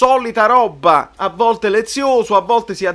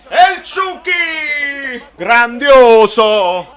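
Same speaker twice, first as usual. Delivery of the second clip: breathless italian goal commentary; 4 semitones higher, 7 dB louder, slower than usual. Real, not acted. Goal scored, fan erupts.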